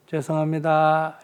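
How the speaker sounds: slow, drawn-out apology; acted soothing apology. Wife apologising to angry husband, soothing. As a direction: apologise calmly and without haste.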